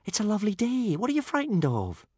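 high, coaxing voice; soothing. A narrator's reading. Hiccup asks his frightened dragon what is wrong, soothing. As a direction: coax a frightened pet with a lilt. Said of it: "said Hiccup soothingly".

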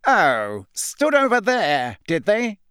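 loud scoff leaping up high; mock the witness's claim; disbelieving. A narrator's reading. Crouch turning popping eyes on Hermione, scornful disbelief. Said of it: "disbelief etched all over his face".

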